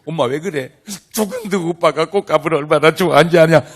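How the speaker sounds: loud, wailing grief over a lost son; crying mother. Retold or imitated. Mother at holiday table wailing for dead son, loud and tearful. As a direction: cry it out as a grieving mother.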